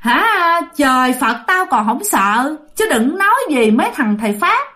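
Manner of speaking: mocking ghost. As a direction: sneer like a fearless ghost. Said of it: "Vong này cười ha hả lên nói rằng á".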